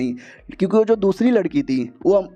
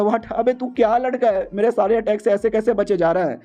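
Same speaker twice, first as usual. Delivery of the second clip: stunned villain; 5 semitones higher than usual. Acted.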